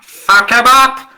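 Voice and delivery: high, loud drawn-out yell; full-voiced shout, slow and high; battle yell. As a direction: holler it across the battlefield as a rallying cry. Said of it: "What do you yell to, to heal him?".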